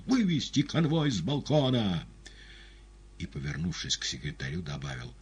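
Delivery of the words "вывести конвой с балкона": громкий высокий приказ; крикни страже; вскрик. A narrator's reading. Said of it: "Тут Пилат вскричал". (громко вскрикнуть)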